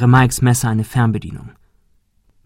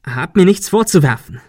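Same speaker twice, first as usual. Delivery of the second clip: higher-pitched, insistent denial; defensive; 7 semitones higher, 4 dB louder than usual. Acted. Ben rejecting Sarah's blame, indignant defence. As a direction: protest your innocence.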